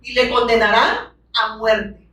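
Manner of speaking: each word slowed and weighed, condenarán leaned on; slow emphatic reading. Shown as a demonstration. Preacher rereads the verse slowly for the congregation, weighty. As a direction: drag out "Y le condenarán a muerte" solemnly. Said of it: "¿qué dice?".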